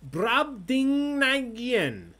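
loud, high, very drawn-out word; grand proclamation. Real, not acted. Host presenting an odd quiz word, grand loud proclamation. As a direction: proclaim it syllable by syllable.

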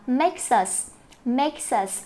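slow "makes us", s carried into us; linked words. Shown as a demonstration. Teacher showing linking in "makes us", slow demonstration. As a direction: join "makes us" into one slow unit. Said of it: "Chỗ này mình có hai cái nối âm".

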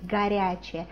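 "горячее" with its first vowel as "a", not "go"; unstressed first o. Shown as a demonstration. Teacher correcting learners, unstressed o in "горячее" said as "a". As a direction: say the start of "горячее" as "ga". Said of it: "We don't say go, we say".

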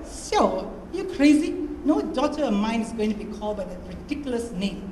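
lightly voiced mother in disbelief; mother refusing the name, rising up in shock; outraged Mum.

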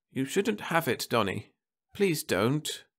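anxious wife at the sickbed; Martha's voice. A narrator's reading.

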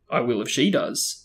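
teeth clenched tight; through gritted teeth. Acted. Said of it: "said Harry through gritted teeth".

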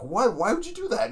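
loud, high-pitched imitated disbelief; acted-out indignant question; mock incredulous. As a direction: demand it in comic outrage. Acting out a film quarrel.

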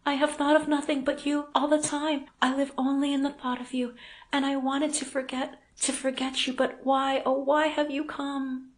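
high, distressed woman's voice; anguished confession. A narrator's reading. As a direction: pour out longing and reproach. Unhappy heroine pours out her love.

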